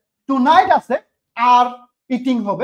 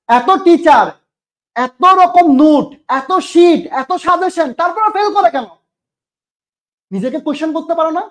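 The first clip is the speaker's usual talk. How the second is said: exasperated rant; 3 semitones higher, 4 dB louder than usual. Real, not acted. Teacher rants at failing students.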